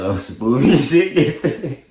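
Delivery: laughing through a slow brag. Real, not acted. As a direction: chuckle while boasting slowly. Laughing while bragging.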